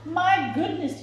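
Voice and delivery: high startled exclamation; a high, startled "my goodness"; surprised cry. A narrator's reading. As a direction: gasp it out in shock. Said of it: "he cried".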